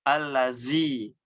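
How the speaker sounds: Allazi with z instead of dz; wrong dzal as zai. Shown as a demonstration. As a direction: demo the error: Allazi. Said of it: "Ataupun dengan huruf zai".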